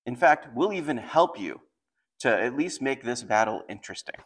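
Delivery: lightly taunting retelling; a casual, mildly scornful challenge; mocking. Enemy envoy belittling a small army, lightly mocking. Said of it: "he's really mocking them".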